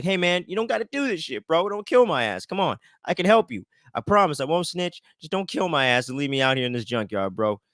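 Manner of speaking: pleading for his life. Retold or imitated. Victor begs for his life.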